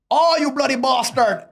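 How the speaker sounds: loud, high-pitched hammed-up Indian accent; mock Indian accent. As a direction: shout it in a put-on Indian accent. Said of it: "We all do accents and whatever".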